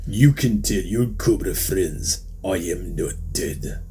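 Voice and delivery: put-on slow, heavy Russian accent; lightly voiced Russian renegade. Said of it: "he said with his thick Russian accent".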